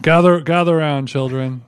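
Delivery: put-on storyteller uncle gathering kids; hammed-up wise old uncle. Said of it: "uncle addressing children".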